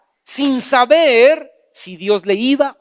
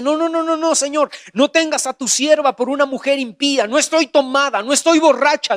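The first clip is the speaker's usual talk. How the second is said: higher, earnest protest; pleading Ana; 4 semitones higher than usual. Acted. Ana protesting to priest Eli, higher and pleading. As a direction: plead your innocence a bit higher. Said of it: "Ana se voltea y le dice".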